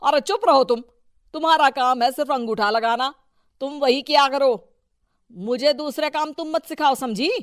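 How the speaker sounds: loud, dismissive scolding; angry rebuke. Acted. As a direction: shut her up in front of the visitor. Husband silences wife angrily. (पत्नी को डांटकर चुप कराता पति)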